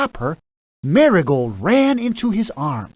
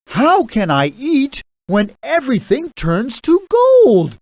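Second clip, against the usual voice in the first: raised, higher anguished cry; king crying out; 9 semitones higher, 4 dB louder than usual. A narrator's reading. King cries out over his golden food, raised and anguished. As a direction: wail it out in despair. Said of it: "he cried".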